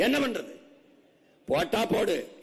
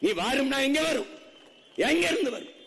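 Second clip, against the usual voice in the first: fiery rhetorical questions; 6 semitones higher than usual. Real, not acted. Orator challenging the crowd on where food comes from, rising passion. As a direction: fire the questions up at the crowd, climbing.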